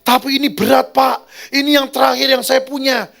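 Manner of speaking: high, loud plea in a woman's voice; imitated tearful pleading. Pastor voices the crying woman's last plea, high mock wail. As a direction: plead in mock distress, pitched well up. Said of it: "Dia malah nangis".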